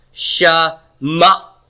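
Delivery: Sha-ma-t said slowly, one syllable at a time. Shown as a demonstration. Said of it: "I wouldn't have to put the accent mark here".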